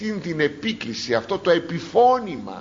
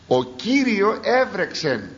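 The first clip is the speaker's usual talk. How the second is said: slow scripture reading; 7 semitones higher, slower than usual. Acted. Slow emphatic scripture quote.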